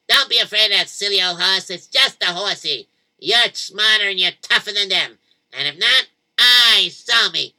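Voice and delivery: rally the whole street; mild kid call-out. Acted. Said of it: "he started screaming".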